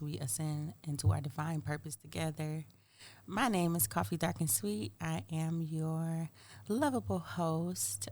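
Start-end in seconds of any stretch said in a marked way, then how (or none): 3.3-8.1 sultry voice. Acted. Are we on the sultry situation.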